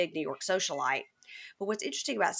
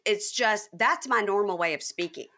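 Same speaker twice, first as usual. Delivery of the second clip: higher and louder, mock exasperated; exasperated protest; 4 semitones higher, 3 dB louder than usual. Telling family she can't help her accent, loud mock exasperation. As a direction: throw up your hands, can't help it. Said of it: "I was like".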